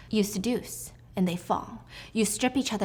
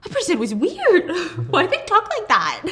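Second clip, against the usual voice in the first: high, loud, laughing mock horror; 9 semitones higher, 6 dB louder than usual. Vlogger imagining a stranger's flirting, laughing disbelief. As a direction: squeal it through laughter. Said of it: "I'd be like".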